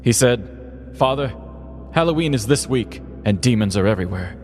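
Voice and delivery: a hint of a folksy preacher at the pulpit; lightly voiced preacher. Preacher addressing his flock, lightly voiced sermon. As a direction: preach it like a small-town pastor, gently. Plays a small-town preacher.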